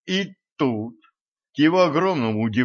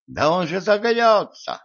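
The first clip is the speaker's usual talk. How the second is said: alarmed protest; 8 semitones higher than usual. A narrator's reading. Alarmed objection.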